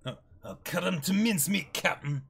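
loud, fast gleeful threat; eager threat. Acted. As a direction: relish the fight ahead. Acrobat threatens the enemy.

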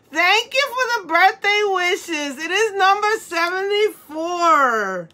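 high, slow, drawn-out happy thanks; elated thanks. Real, not acted. Streamer thanking Kelly for birthday wishes, elated thanks.

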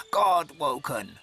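slow, drawn-out raven voice; raven croak. A narrator's reading. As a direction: stretch it like a circling bird. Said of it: "it croaks as it takes to the air".

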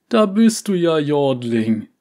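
high, loud, beaming greeting; delighted calling out. A narrator's reading. Old uncle greeting his niece with delight, high and loud. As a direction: arms open, overjoyed to find her. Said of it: "rief er".

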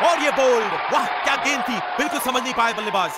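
excited. Acted. Bowled wicket called out.

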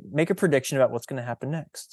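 fast, brisk classroom prompt; teacher prompt. Shown as a demonstration. Teacher asking elementary students to predict what happens next, brisk and fast. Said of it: "I might pause now and say".

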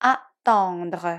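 "attendre" with just one unaspirated t sound; French "attendre", the tt said as one t; double t as one. Shown as a demonstration. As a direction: say "attendre" as a-ton-dre, single t. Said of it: "เขียนเตสองตัว แต่เราออกเสียงเตแค่ตัวเดียว".

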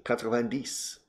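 quatre-vingt-dix in French, soft uvular r, rising at the end; French number quatre-vingt-dix spoken as a native would; French pronunciation. Shown as a demonstration. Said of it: "to say ninety".

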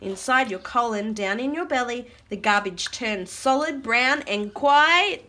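animated rhyming read-aloud; reading to children. Acted. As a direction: read the verse out for little listeners. Reads rhyming book aloud.

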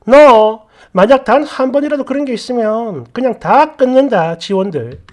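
mildly irate sister-in-law laying down a warning; angry threat. Retold or imitated. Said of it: "막 역정을 내는 거야".

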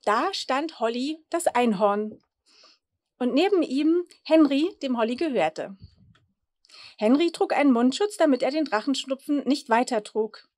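put-on lively storybook reading for children; Geschichte vorlesen. A narrator's reading. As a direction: read it out like a bedtime picture book. Reads children's story aloud. (lebhaft vorgelesene Kindergeschichte)

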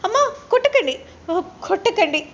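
pretending to be hit, crying out to mother; fake pleading. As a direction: put on a pleading victim act, begging. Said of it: "భూమి acting చేస్తూ ఉంటుంది".

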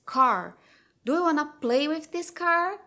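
"Car." punched loud, then "play" lifted high in a rising question; emphasis on play. Shown as a demonstration. Mother repeats word to toddler, emphatic rising invitation. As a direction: invite the child, lifting "play". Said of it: "deu uma entonação maior agora na palavra play".

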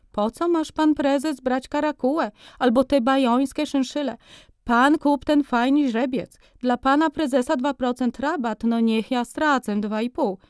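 high-pitched bargaining merchant; haggling furrier. A narrator's reading. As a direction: talk him into the cheap fur.

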